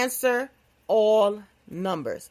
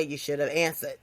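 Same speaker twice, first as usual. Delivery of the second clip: laughing; 7 semitones lower, 3 dB quieter than usual. Real, not acted. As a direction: crack up mid-joke. Laughing at her ghost joke.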